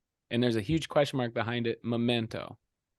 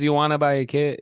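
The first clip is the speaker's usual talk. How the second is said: lightly caricatured comedian pushing a question; Woody Allen; 2 semitones higher, 7 dB louder than usual. Acted. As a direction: insist on a rough impression, loudly. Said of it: "I'm doing the impression right now".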